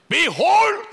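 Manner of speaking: high, loud shout building on God; shout in English. Shown as a demonstration. Pastor showing how to cry to the nations, loud shout. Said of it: "이렇게 외치는 겁니다".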